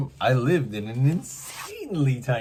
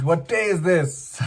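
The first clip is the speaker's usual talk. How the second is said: lightly voiced Scrooge, slow and a bit higher; a hint of the old miser calling out; mild Scrooge impression; 6 semitones higher, 4 dB louder, slower than usual. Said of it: "like a Ebenezer Scrooge".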